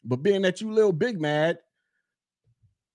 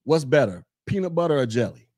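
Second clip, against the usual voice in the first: casual question; 8 semitones lower than usual. Retold or imitated. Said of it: "be like".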